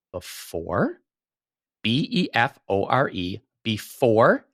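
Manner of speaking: "before" drawn out with a rise, then spelled B E F O R E; stress on before. Shown as a demonstration. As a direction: lean hard on "before" and spell it. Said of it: "Let me say this slowly".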